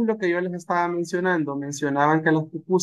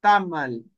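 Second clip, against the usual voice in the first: Tamal with the weight on TA; Tamal, first syllable strong; teacher repeats Tamal, TA-mal; stress on TA. Shown as a demonstration. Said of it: "el acento va en la primera sílaba".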